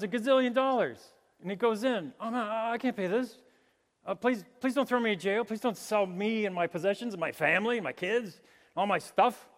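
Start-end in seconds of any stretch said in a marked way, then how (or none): 2.2-9.5 mock pleading. Debtor begging in retold parable.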